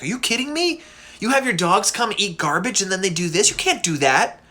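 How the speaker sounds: mock scolding, incredulous at the start. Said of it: "he just full on scolds".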